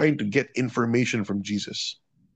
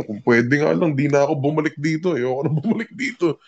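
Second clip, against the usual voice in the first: woman's weary words; 4 semitones higher than usual. Retold or imitated. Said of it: "sabi niya".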